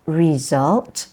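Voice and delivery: "result" drawn out slowly in two beats; two syllables. Shown as a demonstration. Teacher shows class two syllables in result, two syllables. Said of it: "two syllables".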